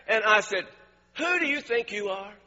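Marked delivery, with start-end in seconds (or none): 1.2-2.3 indignant retold confrontation; retold losing it. Preacher retelling confronting a guest who criticized his pastor, indignant. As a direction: challenge him, offended on your pastor's behalf. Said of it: "I lost it".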